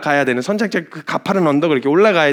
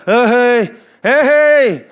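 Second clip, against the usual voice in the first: louder, higher, teasing worker's call; laid-back dock worker; 6 semitones higher, 4 dB louder, slower than usual. Retold or imitated. Dock worker calling down to the stuck driver, lazy teasing. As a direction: tease her like a casual dock hand. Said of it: "막 이러면서 얘기를 하는데".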